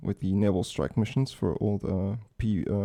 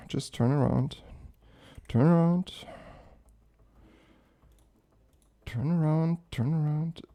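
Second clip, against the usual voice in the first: pleading; 7 semitones higher than usual. Real, not acted. Willing the plane away.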